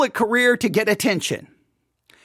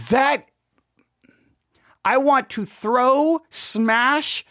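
normal talking voice

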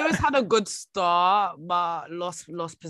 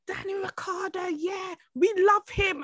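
imitating dad; 12 semitones higher than usual. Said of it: "my dad was like".

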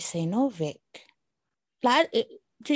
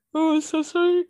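mock apologetic high voice; 10 semitones higher, 5 dB louder than usual. Acting out a yawn apology.

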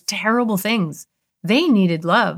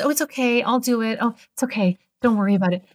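higher, eager-to-please giving in; people-pleasing nice; 4 semitones higher than usual. Retold or imitated. Voicing the overly nice person who lets others off, lightly mock-sweet. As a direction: brush it off sweetly to avoid conflict. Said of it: "When you're nice".

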